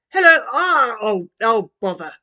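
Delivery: a dad tripping over his words; Dad fumbling at the doorstep, loud and flustered. A narrator's reading.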